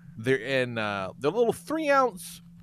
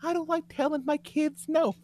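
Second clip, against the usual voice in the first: mocking; 13 semitones higher than usual. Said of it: "I cannot imagine being like".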